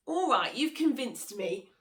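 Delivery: Monkey gives in with glee; eager Monkey voice. Acted. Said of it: "said Monkey".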